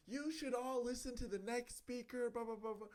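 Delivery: lightly voiced principal. Principal tries to control graduation audience, lightly mimicked.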